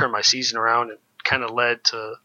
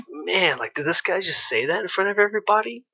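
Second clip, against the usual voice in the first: higher, incredulous inner voice; disbelief; 7 semitones higher than usual. Retold or imitated. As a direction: replay the shock of being called out. Stunned inner reaction to coach.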